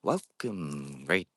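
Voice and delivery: very slow, drawn-out spooky host; horror host greeting. Retold or imitated. Ghost hunter quoting a horror show host for viewers, slow and drawn out. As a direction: stretch the greeting like a creepy TV host. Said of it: "name what that's from".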